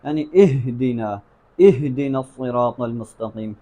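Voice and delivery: slow recitation overworking the h in "اہدنا"; overdone haa. Shown as a demonstration. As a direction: show the fault, straining the h of "اہدنا". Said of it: "اس پر تکلف کر دیا جاتا ہے".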